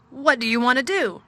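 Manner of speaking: a tired, gloomy lord giving orders; gloomy master of house. A narrator's reading. Craven rouses himself.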